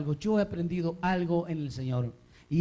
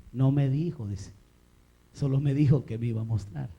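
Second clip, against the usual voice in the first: a low, understated reply in dialogue; lightly acted husband; 5 semitones lower than usual. Husband answers his wife about God's call, lightly acted and low. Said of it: "Y le dice, "Hermana Marina".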